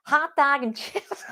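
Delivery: slow, giggly American accent attempt; badly faked American accent, breaking into laughter. Shown as a demonstration. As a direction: drawl it out in a hesitant American accent. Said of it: "do an American accent".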